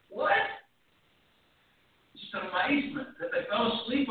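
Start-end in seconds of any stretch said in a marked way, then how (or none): 0.1-0.4 incredulous. Shown as a demonstration. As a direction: say What? in plain disbelief. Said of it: "just an incredulous".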